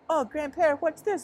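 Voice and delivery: high, excited gasp of wonder; amazed townsfolk. Pretend. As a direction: gush like a wide-eyed local. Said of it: "they'll be like".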